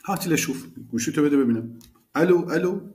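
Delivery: demanding brother. Acted. Brother grabs phone, calls out.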